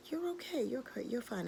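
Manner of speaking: hushed, soothing reassurance; comforting. Acted. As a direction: soothe the bird very softly. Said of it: "began to just comfort him".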